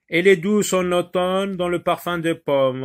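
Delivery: poem line projected to a class; poem recitation. Acted. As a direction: recite the line loudly and clearly.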